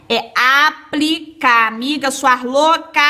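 loud and slow, teasing exasperation; mock scolding. Real, not acted. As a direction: spell out É aplicar like scolding a silly friend. Teacher scolds students playfully. (bronca brincalhona, alta e lenta)

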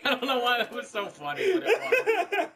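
high, loud words through laughter; laughing. Real, not acted. Co-host laughing at the blunder, laughing. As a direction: giggle it out helplessly.

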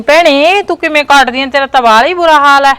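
loud sympathetic greeting. Acted. Neighbour loudly pitying the daughter-in-law. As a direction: call out with overdone sympathy.

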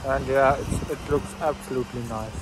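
talking around a toothbrush; while brushing teeth. Real, not acted. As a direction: mouth full of toothbrush. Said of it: "I'm brushing my teeth right now".

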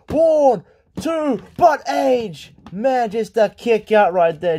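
punchy wrestling commentary; urgent match commentator; excited play-by-play. Acted. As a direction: build to the big move and burst out. Live play-by-play, near finish.

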